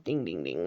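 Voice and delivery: bell ding. Retold or imitated. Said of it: "and it goes".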